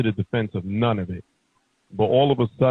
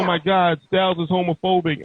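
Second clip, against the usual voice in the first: mock outrage; 5 semitones higher than usual. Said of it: "They be like".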